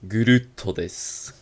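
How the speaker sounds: low, slow menacing anime villain. Acted. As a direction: ham up the big anime baddie. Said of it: "a minha maior voz de vilão de anime". (voz de vilão de anime, grave e lenta)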